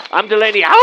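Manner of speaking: name, then a loud high wolf howl. Acted. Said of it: "she always howls".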